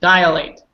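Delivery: "Dilate" with an extra vowel, DIE-uh-late; wrong-form DILATE. Shown as a demonstration. Teacher shows the wrong form, mispronounced Dilate. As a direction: say Dilate in three syllables, falling. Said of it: "What's wrong with this word?".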